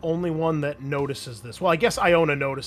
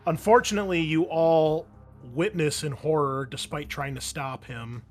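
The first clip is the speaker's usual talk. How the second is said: game master narration. A narrator's reading. Game master telling players of an execution, grim narration. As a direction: narrate a grim scene, trailing down to softness.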